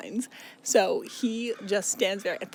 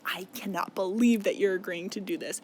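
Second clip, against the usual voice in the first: spiteful. Retold or imitated. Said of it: "so fucking full of spite".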